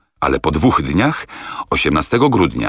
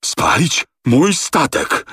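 much higher, slow wheezing question; rasping croak; 10 semitones higher, slower than usual. A narrator's reading. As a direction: croak it barely getting words out. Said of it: "charkotał kapitan Speedy". (charczący, ledwo wymawiając zgłoski)

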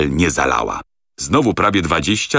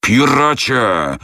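higher, slow, raised shout; screamed insult; 7 semitones higher, much slower than usual. A narrator's reading. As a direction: hurl the word at him. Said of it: "wrzasnął Andrew Speedy". (wrzask, wyżej i wolno)

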